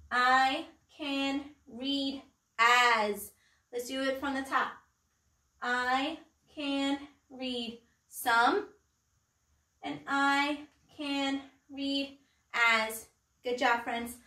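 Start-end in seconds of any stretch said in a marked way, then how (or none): 0.1-3.3 very slow, each word set apart; word-by-word reading. Shown as a demonstration. Teacher leading children in reading sight words, slow and measured. 5.6-13.1 very slow, each word set apart; word-by-word reading. Shown as a demonstration. Teacher leading children in reading sight words, slow and measured.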